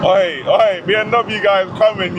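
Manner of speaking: ordinary talk, nothing marked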